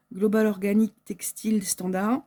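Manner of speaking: English words in a French accent. Real, not acted. Vlogger reading out a fabric label's English name, French accent. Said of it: "avec mon super accent français".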